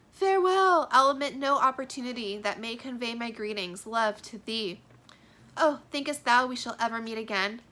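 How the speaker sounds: theatrical lovers' goodbye; dramatic parting. Acted. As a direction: promise to write, then reassure. Reading the parting dialogue.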